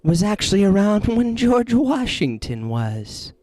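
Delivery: slow, eerie spirit voice, lightly put on; a creepy spirit bragging, barely acted; possessing spirit impression. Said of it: "the Kalo impression".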